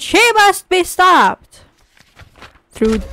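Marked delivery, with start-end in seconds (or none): 0.0-1.6 high, slow, drawn-out cry; theatrical, controlled yell; storybook scream. A narrator's reading. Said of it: "and screamed".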